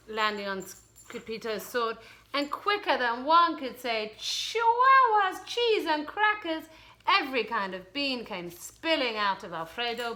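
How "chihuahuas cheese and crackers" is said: exclaiming. Acted. Quick exclamation in narration.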